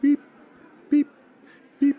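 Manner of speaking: slow, formal recorded announcement; talking clock phone voice. Retold or imitated. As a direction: read the time like the speaking clock. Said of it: "did you have this?".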